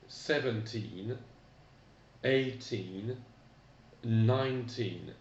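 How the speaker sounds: teacher demo, first syllable stressed; slow model pronunciation of thirteen to nineteen; English teens modelled. Shown as a demonstration. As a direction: model each teen number clearly, pausing for repetition. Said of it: "donc répétez après moi".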